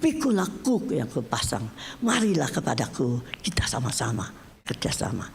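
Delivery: a hint of God calling someone close, trailing into near-whisper; God's invitation. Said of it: "Tuhan bilang".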